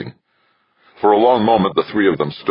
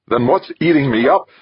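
high, loud, indignant question; demanding; 13 semitones higher, 5 dB louder than usual. A narrator's reading. Westfall confronting Devlin over what is inside her, demanding. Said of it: "Westfall demanded".

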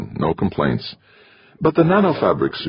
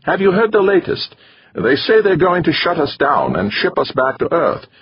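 put-on high, gloomy foreign-accented man; gloomy Middle European accent; 13 semitones higher than usual. A narrator's reading. Torok telling the table the base may close, gloomily. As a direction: Torok sharing bad news with a heavy accent. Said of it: "Torok asked gloomily".

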